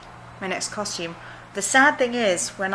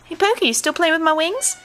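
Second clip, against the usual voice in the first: pet talk; 9 semitones higher, 5 dB louder than usual. Real, not acted. Talking to the cat.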